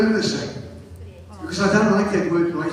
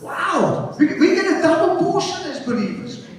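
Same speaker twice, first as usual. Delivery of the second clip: raised, exhorting pulpit voice; full-force preaching; 8 semitones higher, 3 dB louder than usual. Real, not acted. Preacher asking believers if they are glad, full-force preaching. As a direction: press each point home to the crowd.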